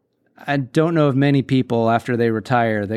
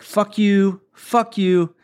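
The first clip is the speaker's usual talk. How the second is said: higher, cheeky repeated blow-off; mock angry telling off; 7 semitones higher, much slower than usual. Cook cursing out the customers, mock angry. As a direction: go down the line cursing everyone out. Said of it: "He goes like".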